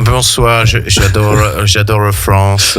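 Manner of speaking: put-on French with a thick English accent; an English speaker fumbling through French. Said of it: "fais un accent anglais".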